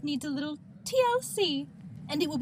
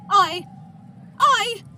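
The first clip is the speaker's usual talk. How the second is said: sputtering outrage; 3 semitones higher, 10 dB louder than usual. Acted. Doll furious about Frost King.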